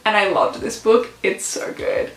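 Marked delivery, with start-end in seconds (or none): 1.2-2.1 breathy whisper, no voice; whispered gush. Real, not acted. Telling viewers the book is great, whispering. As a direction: whisper it like a secret. Gushing aside about book.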